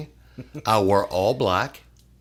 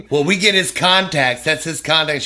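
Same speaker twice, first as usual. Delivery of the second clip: higher, louder mock insistence; insistent claim; 6 semitones higher, 9 dB louder than usual. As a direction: claim the contacts as if they're owed to you. Controller insists on keeping contacts.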